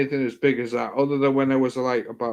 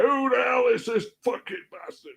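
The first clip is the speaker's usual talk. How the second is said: Scottish caretaker; 11 semitones higher, 4 dB quieter than usual. Retold or imitated. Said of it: "proper Scotsman".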